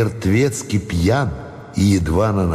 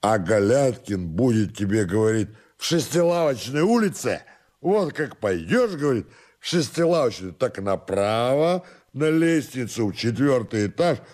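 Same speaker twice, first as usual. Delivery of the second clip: higher, softened tipsy explaining; drunken rambling servant; 5 semitones higher, 4 dB quieter than usual. Acted. Drunken servant gives master directions, soft tipsy rambling. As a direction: explain it hazily, a little soft and high.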